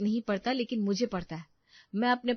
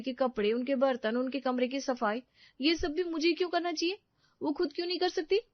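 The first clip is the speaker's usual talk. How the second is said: much higher, faster protest; indignant outburst; 6 semitones higher than usual. Acted. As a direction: let the frustration burst out. Wife argues with husband. (पति से चिढ़कर ऊँचे सुर में शिकायत)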